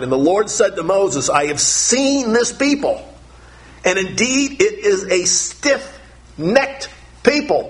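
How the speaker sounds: a hint of a solemn divine voice; lifted, slow reading of scripture; God's voice, lightly voiced. Preacher reads God's words in Exodus.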